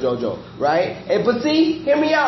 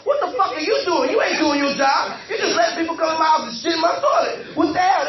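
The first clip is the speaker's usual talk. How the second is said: yelling at the dog; 3 semitones higher than usual. Retold or imitated. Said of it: "I'm like".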